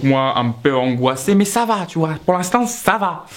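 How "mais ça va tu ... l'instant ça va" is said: higher-pitched forced reassurance; anxious self-reassurance. Retold or imitated. Worried customer tells himself it's fine, forced reassurance. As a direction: insist all is fine, pitch lifted.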